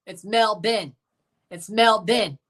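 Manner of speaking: "Melbourne" said Aussie-style as MEL-bin; "Melbourne" with no r, second syllable "bin"; Aussie pronunciation. Shown as a demonstration. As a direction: insist on "Melbourne" with a clipped "bin" ending. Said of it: "not Melbourne".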